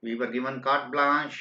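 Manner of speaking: slow, soft dictation while writing; teacher dictating slowly. Shown as a demonstration. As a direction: read it out slowly as you write it. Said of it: "मैं लिख देता हूं".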